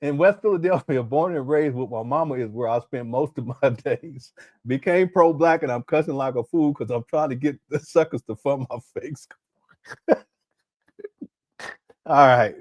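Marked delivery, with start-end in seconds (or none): 0.0-9.3 reading through giggles at the lyrics; laughing while reading. Real, not acted. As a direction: struggle to hold back laughter as you read. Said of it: "I'm just gonna read it".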